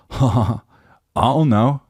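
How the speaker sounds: put-on high, lazy teenage shrug of a reply; mock clueless teen. Mocking young people who say only this. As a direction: toss it off like a bored eighteen-year-old. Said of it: "They say".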